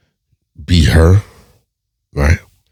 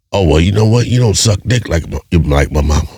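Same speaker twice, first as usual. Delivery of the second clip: mocking boyfriend; 3 semitones higher than usual. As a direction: parody him raising his pitch. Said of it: "say some stupid shit like".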